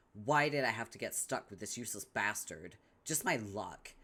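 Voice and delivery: normal talking voice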